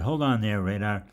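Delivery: teasing call. Retold or imitated. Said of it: "I said".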